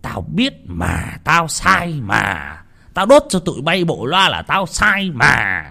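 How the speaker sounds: exasperated lament. Acted. Master laments his mistake.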